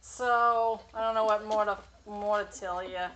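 imitated laboured voicemail with pauses; mock the effort of getting each sentence out; exhausted, pausing. Imitating friend's mother-in-law's voicemail, exhausted and halting. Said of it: "these long pauses".

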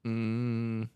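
usual speaking voice

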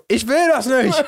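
high, hammed-up outburst through laughter; laughing exclamation. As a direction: blurt it high, cracking up. Hammed-up joke take, laughing.

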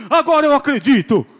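loud repeat broken by laughter; preacher laughs while repeating the skeptic's cry; laughing yell. Retold or imitated. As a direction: shout it again, cracking up. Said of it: "começou a gritar".

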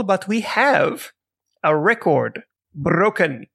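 rolled, trilled r in "record broken", slowly. Real, not acted. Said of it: "Don't know why I'm rolling my R's".

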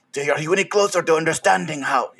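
put-on slipped into a fast Mexican accent. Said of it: "sorry, that went Mexican real quick".

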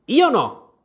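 gloomy Hatter. Acted. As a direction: shake your head dolefully. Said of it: "con aria lugubre". (il cappellaio, lugubre)

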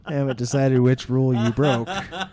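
laughing through a joke accusation. Real, not acted. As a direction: chuckle while accusing. Teasing accusation while laughing.

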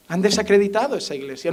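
"Han desacreditado esa iglesia" repeated softly, almost to himself; quiet repetition. Shown as a demonstration. Pastor repeating his rebuke to the church, quiet and grave.

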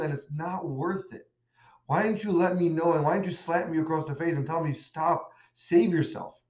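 mock-yelling at the rabbi, half earnest; accusing outburst. Smuggler yelling at the rabbi before his execution, mild mock yell. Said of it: "he yells at the rav".

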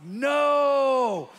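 sudden high, loud shout of No. Retold or imitated. Pastor inwardly screaming no at the crawl. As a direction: blurt the refusal at full voice. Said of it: "inside, it was like".

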